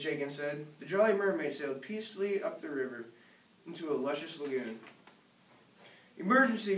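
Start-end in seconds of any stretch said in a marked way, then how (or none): 6.2-6.8 high, loud urgent cry; alarmed shout. Acted. Father crying out about the alligators. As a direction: call out the danger. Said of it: "Father cried".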